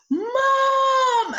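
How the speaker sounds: a high, loud, joyful shout across the set; calling out Mom. Retold or imitated. Costar playing her son shouts to her on set, loud call. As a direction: yell it like a kid spotting his mom.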